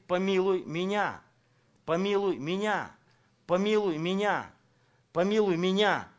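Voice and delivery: a preacher acting the woman's repeated plea; mock crying out. Preacher acting the woman's cry to Jesus, repeated pleading. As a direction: plead it over and over, building. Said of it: "Она кричит".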